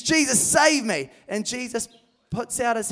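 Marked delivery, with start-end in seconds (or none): 0.0-1.1 high, slow pleading cry; desperate plea. Acted. Sinking Peter to Jesus, high desperate plea. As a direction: beg for rescue. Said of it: "And he says".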